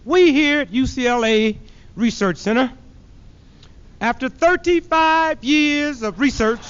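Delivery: hint of a pompous news statement; mock TV professor. Professors on the noon news, mock solemn. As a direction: announce it like a stuffy expert. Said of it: "going something like this".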